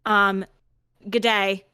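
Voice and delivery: slowing, put-on polite request; mock email writer. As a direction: compose a hammed-up email aloud. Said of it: "Also, they emailed him?".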